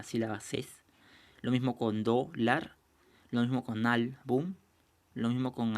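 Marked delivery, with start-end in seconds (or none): 2.0-2.8 "dólar" slowly split as dó, lar; syllable by syllable. Shown as a demonstration. Teacher giving another example, "dólar" syllable by syllable. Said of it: "que se separa en dos sílabas". 3.9-4.5 "álbum" split into ál, bum; syllable by syllable. Shown as a demonstration. Teacher giving another example, "álbum" syllable by syllable. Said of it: "que se separa en dos sílabas".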